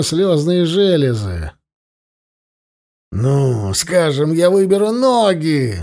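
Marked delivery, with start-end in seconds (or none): 3.1-5.8 shouted. Acted. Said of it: "закричал он".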